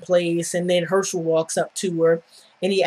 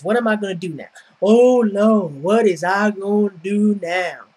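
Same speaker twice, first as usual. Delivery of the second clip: whiny put-upon lament; a hammed-up "Oh, Lord" despair; mock woe is me. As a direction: whine it like a helpless damsel. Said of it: "almost verbatim what she says".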